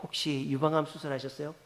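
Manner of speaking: discreet question. Retold or imitated. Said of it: "살짝 가서 물어봤대요".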